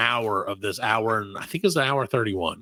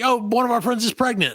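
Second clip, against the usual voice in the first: mock pop-group voice; 9 semitones higher than usual. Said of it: "they're like".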